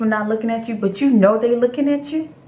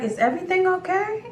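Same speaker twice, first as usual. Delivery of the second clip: careful checking-in; 11 semitones higher than usual. Retold or imitated. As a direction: ask gingerly in a raised voice. Careful question to angry date.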